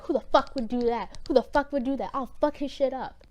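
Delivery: retold angry outburst; mock outraged king. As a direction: play a king flying off the handle, without real shouting. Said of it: "immediately pissed off".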